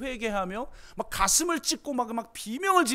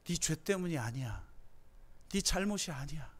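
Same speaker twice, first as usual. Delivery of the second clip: quiet and tender, much softer; soft consolation; 6 semitones lower, 11 dB quieter than usual. Acted. Jesus softly telling the congregation it's not their fault. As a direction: gently reassure a hurting soul.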